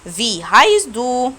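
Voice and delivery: heißt drawn out slowly; very slow teacher model of heißt; very slow German demo. Shown as a demonstration. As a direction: spell out "Wie heißt du" word by word. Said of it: "تعال نتدرب تاني".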